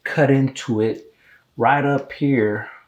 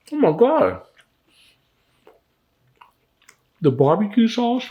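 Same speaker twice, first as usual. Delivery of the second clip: excited; 9 semitones higher than usual. Real, not acted. Tasting the turkey.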